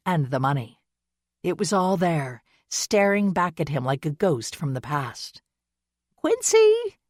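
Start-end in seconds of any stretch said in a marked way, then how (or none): 6.2-7.0 loud, high call through a door. Acted. Missus Dover calls Quincy through the door, loud high call. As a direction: call his name through the thick door.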